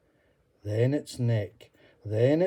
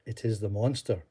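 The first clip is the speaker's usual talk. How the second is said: smiling. Acted. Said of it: "Columba smiled and said".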